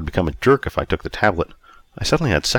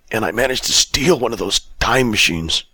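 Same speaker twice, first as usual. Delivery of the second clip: higher-pitched down-and-out character voice; destitute drunk Bob; 4 semitones higher than usual. Acted. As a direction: lament it as a broken-down drunk.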